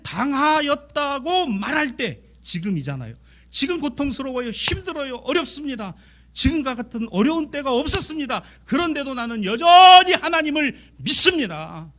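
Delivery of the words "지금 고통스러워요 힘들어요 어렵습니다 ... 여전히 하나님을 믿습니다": high, pleading testimony that swells on the declaration of faith; impassioned confession. Acted. Psalmist confessing faith amid suffering, high impassioned voice.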